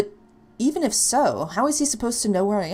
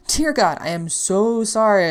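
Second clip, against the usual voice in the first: panicked plea; 3 semitones higher, 6 dB louder, slower than usual. Acted.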